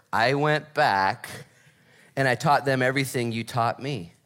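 slow, spaced-out repeat with a pause. Acted. Former student repeats his report for Paul, slowly. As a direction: say it slowly, phrase by phrase. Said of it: "Say it a little slower".

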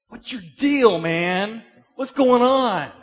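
high, shouted exasperated challenge; loud confrontation. Acted. Preacher confronting the angry person, shouting.

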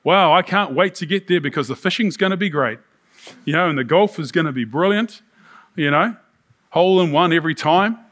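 lightly acted eager daydreamer; a touch of tongue-in-cheek excitement; mock anticipation. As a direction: play someone looking forward to a treat. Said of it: "we go".

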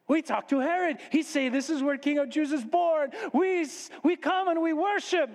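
high-pitched foreign visitor, eager; delighted magus. Acted. Magus reports what Herod said, delighted. Magus explains in broken English.

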